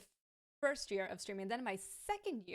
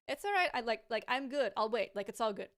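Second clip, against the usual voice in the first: voicing a reassuring person; 4 dB louder than usual. Voices kind helper reassuring.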